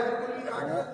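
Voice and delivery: whispered, mocking the idle host. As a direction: breathe it out in scorn. (तंज़ भरी फुसफुसाहट)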